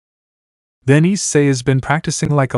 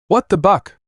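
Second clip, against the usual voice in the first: startled, higher exclamation; surprised; 7 semitones higher than usual. A narrator's reading. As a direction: blurt it out in shock. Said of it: "he said in surprise".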